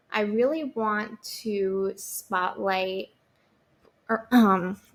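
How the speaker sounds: throat catching, voice strained mid-sentence; choking. Real, not acted. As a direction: talk through a tickle in the throat. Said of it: "sorry, I'm choking again".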